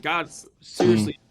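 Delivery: bitter outcry. Retold or imitated. Retold angry outcry at God.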